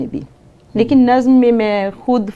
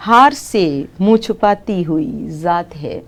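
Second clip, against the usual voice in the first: poem recitation. Acted. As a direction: recite it like at a mushaira. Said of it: "اس میں سے ایک نظم سناتی ہوں".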